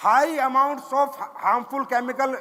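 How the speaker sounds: slow, deliberate reading of English headline; headline read aloud. Shown as a demonstration. Reading a shocking headline to his audience, slow and deliberate. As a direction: spell out each word of the headline slowly.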